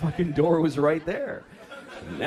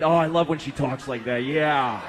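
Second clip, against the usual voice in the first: mock lustful husband; 2 semitones lower, 5 dB louder than usual.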